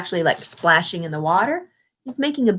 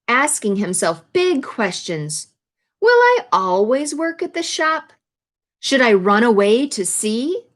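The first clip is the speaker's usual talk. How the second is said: put-on reading to children; slower than usual. A narrator's reading. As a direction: read Ben's wondering aloud to the class. Reads picture book to class.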